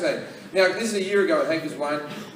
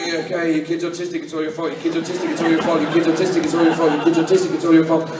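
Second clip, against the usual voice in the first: monotone chant building louder; mock nagging inner voice, getting louder; obsessive loop; 4 dB louder, faster than usual. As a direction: repeat it like a stuck record. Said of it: "my brain was on a loop".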